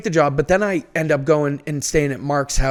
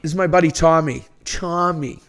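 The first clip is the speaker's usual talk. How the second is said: showing the real Boston accent, understated; a subtle Boston "buddy Tommy"; correcting the other guy with a lighter Boston accent. Shown as a demonstration. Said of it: "People get the Boston accent wrong".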